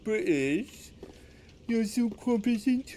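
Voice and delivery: high put-on voice gushing over a Brit; mocking American. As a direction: ham up an awed American fan. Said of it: "They'll be like".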